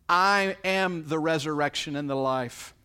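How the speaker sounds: solemn declaration. Acted. Jesus declaring to Martha, loud and solemn. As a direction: proclaim it with authority.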